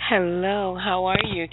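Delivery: sultry phone-line greeting; nine hundred number voice. Real, not acted. Caller greeting the radio hosts, in a nine hundred number voice. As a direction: greet them like a hotline hostess. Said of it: "I can hear that nine hundred number voice".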